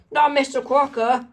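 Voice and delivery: high-pitched cartoon cry; acted cry of dread; alarmed yell. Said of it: "and yell".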